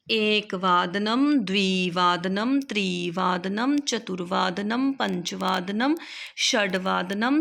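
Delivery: each word drawn out slowly; slow careful recitation. Shown as a demonstration. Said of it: "तो ये था हमारा समय".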